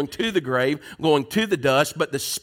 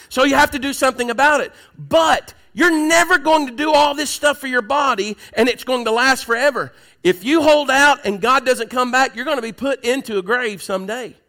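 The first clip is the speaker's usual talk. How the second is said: much higher and louder, driving the point home; preaching shout; 7 semitones higher, 5 dB louder than usual. Real, not acted. Preacher pressing the congregation about the body, shouting. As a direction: build to a full preaching shout.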